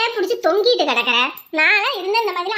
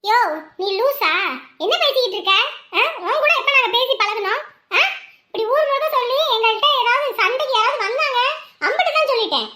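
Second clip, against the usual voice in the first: scolding; 4 semitones higher than usual. Acted. Woman scolding a meddling man.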